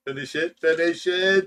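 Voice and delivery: mock command. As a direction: egg a friend on to drain the drink. Goading co-host to finish drink.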